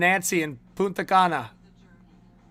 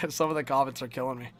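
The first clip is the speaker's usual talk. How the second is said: laughing; 5 semitones lower, 7 dB quieter, much faster than usual. Real, not acted. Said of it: "I'm just laughing".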